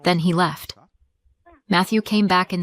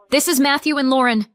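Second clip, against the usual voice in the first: higher, louder, venomous; spitting anger; 6 semitones higher, 3 dB louder, faster than usual. Acted. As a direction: spit the names out. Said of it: "she spit".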